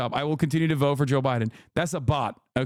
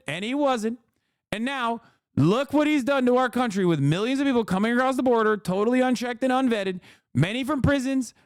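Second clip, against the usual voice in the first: Donald Trump impression; 8 semitones higher than usual. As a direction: read the statement as a hammed-up Trump. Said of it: "Let's see what he had to say".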